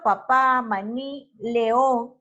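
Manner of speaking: final syllable stressed in "papá", "maní", "león"; spaced-out examples, hitting PÁ in "papá", NÍ in "maní", ÓN in "león"; stress on the last syllable. Shown as a demonstration. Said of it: "las palabras agudas se van a acentuar".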